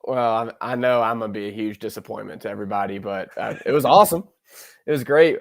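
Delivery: speaking with a nasal voice; stuffed-up nasal tone throughout. Real, not acted. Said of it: "I know I got this nasally voice going".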